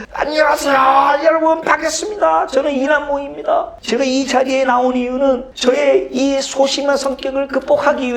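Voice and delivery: high, earnest public address; reenacted street speech. Boy giving a speech at the bus stop, high earnest address. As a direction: proclaim it like a nervous schoolboy orator. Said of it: "그때 제가 훈련을 했다".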